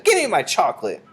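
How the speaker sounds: high, loud bratty order; demanding boy. A narrator's reading. Bruno demands his chocolate, high and bratty. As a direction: insist like a greedy boy.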